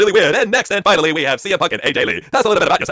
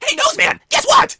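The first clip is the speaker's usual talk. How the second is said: high, sneering taunt; mock Stephanie voice; much slower than usual. Wife taunts Triple H, high mocking voice. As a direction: jeer at him in a high put-on voice. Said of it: "Batman said impression".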